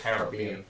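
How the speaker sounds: Caribbean stressed on the BE; pronounced Caribbean. Shown as a demonstration. Correcting the friend, Caribbean stressed on BE. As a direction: say Caribbean as ka-rih-BEE-an. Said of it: "I think it's pronounced".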